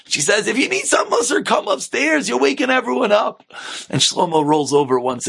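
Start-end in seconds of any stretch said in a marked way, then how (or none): 0.5-3.4 higher-pitched mock scolding; old lady nagging her husband; scolding wife. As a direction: order him upstairs, lightly acted.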